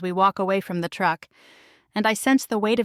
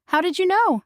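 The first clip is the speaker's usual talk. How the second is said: surprised; 12 semitones higher, 5 dB louder than usual. A narrator's reading. Surprised question.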